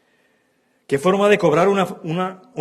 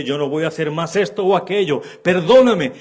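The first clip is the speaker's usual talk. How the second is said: louder, rising plea for forgiveness; pleading; 2 semitones higher, 5 dB louder than usual. Retold or imitated. Offender begging the one he hurt, loud plea. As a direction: cry out for pardon.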